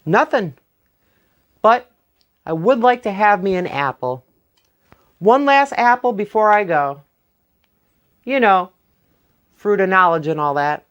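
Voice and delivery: lightly voiced sly Jack; innocent-acting Jack. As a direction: play it sweet and harmless.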